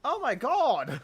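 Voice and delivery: high loud oh my god; high sudden realization; surprised exclamation. Real, not acted. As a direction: burst out surprised.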